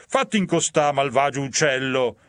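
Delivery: commanding demon. Acted.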